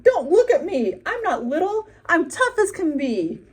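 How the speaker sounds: high, loud frantic shout; upset shout. A narrator's reading. Little buffalo shouting at the gawking animals, high and loud. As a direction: shout it out, stung and defiant. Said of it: "Fluff shouted out".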